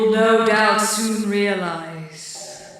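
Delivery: slow, low ominous witch. Acted. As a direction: menace them slowly like a witch. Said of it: "This is a witch noise".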